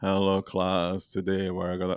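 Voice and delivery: soft, quiet droning monotone with no pitch lift. Showing how a man talks that should put you to sleep, talking like Ben Stein. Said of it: "he is talking like Ben Stein".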